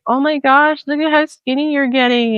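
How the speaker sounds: a hint of high-pitched admiring fuss; mock gushing grandma. Grandma to granddaughter who lost weight, mildly mocked gushing. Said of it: "she's like".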